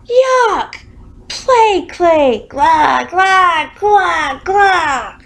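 very high, loud yuck and gagging; disgusted yell. A narrator's reading. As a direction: shriek it out like you bit into clay. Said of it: "he yelled".

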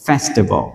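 "festival" ending in a rounded "vol". Shown as a demonstration. Teacher explains the unwritten vowel, "festival" ending in "vol". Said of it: "chúng ta vẫn đọc là vo".

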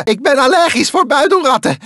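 fast annoyed shout. Acted. Annoyed character shouting allergy complaint at the bandicoot. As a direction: rattle it off in irritation.

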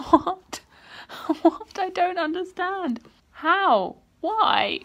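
loud, high, baffled outburst; shocked disbelief. Real, not acted. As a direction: burst out with real shock, word by word. Shocked by a plot twist.

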